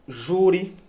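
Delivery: JU in "Jure" stressed, said slowly as a model; stressed word example. Shown as a demonstration. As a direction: hit the first syllable of "Jure". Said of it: "Jure é uma paroxítona?".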